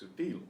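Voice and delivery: "sutil" with the stress on -til; final-syllable stress. Shown as a demonstration. Teacher applying the stress rule, final-syllable stress on "sutil". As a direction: lean on the last syllable of "sutil". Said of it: "it's stress on the final syllable".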